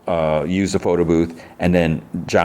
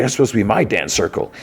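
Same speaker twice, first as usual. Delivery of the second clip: pitched-up retold complaint; mildly mad; 5 semitones higher, faster than usual. Sweet Tooth resents the circle, mildly mad whine. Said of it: "Sweet Tooth is mad".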